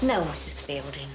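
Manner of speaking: low, sullen reply; mock obedience. Assistant replies to Missus Fielding, mock obedient.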